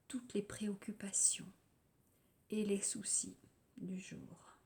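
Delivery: calm, unhurried guided-relaxation voice with long pauses; lightly meditative delivery, letting phrase endings settle; guided yoga nidra. Real, not acted. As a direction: guide listeners gently into rest, phrase by phrase.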